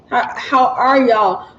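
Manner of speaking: slow, corrected "how are y'all"; "how are y'all" restarted slowly and carefully; careful enunciation. Real, not acted. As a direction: draw out "are" in "how are y'all", minding the Southern accent. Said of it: "get this Southern accent together".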